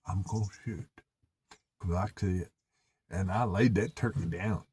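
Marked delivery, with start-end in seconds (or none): 0.1-2.5 soft hushed hunter's whisper; whispered aside. Retold or imitated. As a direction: whisper it so the turkey won't hear. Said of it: "I whispered to him".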